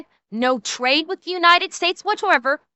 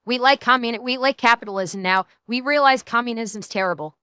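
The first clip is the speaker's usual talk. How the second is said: mock begging; 3 semitones lower than usual. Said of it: "come begging back to the United States saying".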